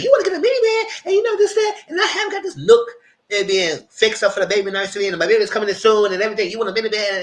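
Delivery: high, loud imitation of a frantic woman; freaking out. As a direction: shriek it like she's losing it. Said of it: "Camille is freaking out".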